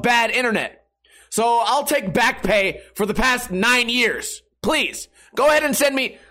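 oversell the eagerness, taking the piss; cheeky fake enthusiasm; mock eager. Mock eager reply to cable company.

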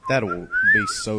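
tiny high cartoon voice; squeaky high voice. Warning his friend about the recording in a squeaky high voice.

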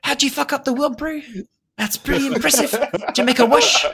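put-on New Zealand accent. Monk as Kiwi bro consoling the Avatar, New Zealand accent. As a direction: chill New Zealand dude. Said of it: "talking to Taika Waititi about this".

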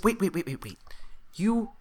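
high-pitched, halting kobold voice; baffled kobold. Acted.

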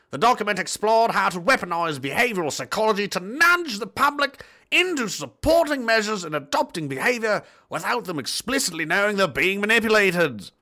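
lilting, theatrical news read; report read-out. Acted. Reading the deleted report to viewers, theatrical read. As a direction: read it out like a pompous newsreader.

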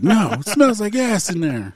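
high-pitched mock whine through laughter; imitated reluctant dude. Dude refusing to enter the bathroom, mock protest. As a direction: replay his refusal as a punchline. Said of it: "He was like".

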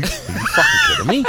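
high, incredulous yell; angry shout. Retold or imitated. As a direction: shout it in disbelief. Retelling an angry outburst.

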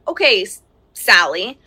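put-on a stern mom calling the child; stern mom voice in a quick demo; sharp demo tone. Shown as a demonstration. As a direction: start with a firm parental edge. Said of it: "you don't have to say it in that tone".

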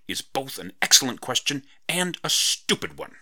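high, loud excited exclamation; exclaiming. Acted. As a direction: burst it out with delight. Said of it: "she exclaimed".

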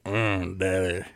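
low, soft moan; deep daddy moan. Shown as a demonstration. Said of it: "I wanna hear it like".

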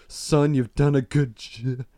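slow, forced praise; trying compassion. Acted. Dad struggling to praise son, forced compassion. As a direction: squeeze out kindness slowly. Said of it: "trying to be compassionate".

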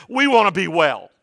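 retold loud cry for healing; crying out loudly. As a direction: call out as lepers begging from a distance. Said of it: "they cried out in a loud voice".

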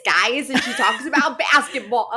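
attempted Chicago accent, half laughing. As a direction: imitate a comedian's Chicago accent. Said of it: "she talks like this".

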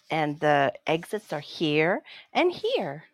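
flight attendant voice. Retold or imitated. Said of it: "The way that she said that".

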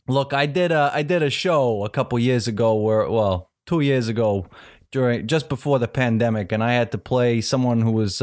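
casual New York accent impression. Shown as a demonstration. Host telling acting story on request, New York accent. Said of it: "What's your best New York accent?".

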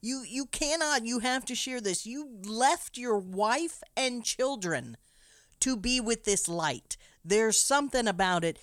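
high, loud frantic pleading; young keeper demanding to see the light, desperate and loud. Retold or imitated. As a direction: beg him loudly, voice up. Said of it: "young Thomas is like".

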